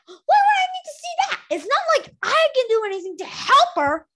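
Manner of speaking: high, scornful whine; haughty queen refusing the visions; indignant complaint. Acted.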